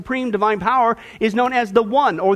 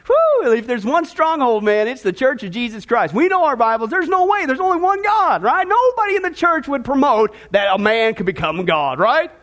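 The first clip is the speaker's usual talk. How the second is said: mock-confident, raised pitch; sarcastic; 4 semitones higher than usual. Preacher pretends the church is safe, sarcastically sure. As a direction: overplay total certainty, tongue in cheek. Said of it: "catching on to the sarcasm".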